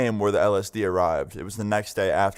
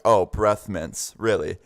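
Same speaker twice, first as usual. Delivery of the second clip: slow, drawn-out disbelief; imitated mom's knowing doubt; skeptical mom; slower than usual. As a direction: echo it slowly, not buying it. Suspicious mom doubts son's excuse.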